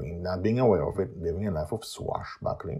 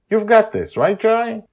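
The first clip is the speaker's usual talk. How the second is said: put-on very high, loud girl; squeaky eager girl; 12 dB louder than usual. Yumio character voiced high.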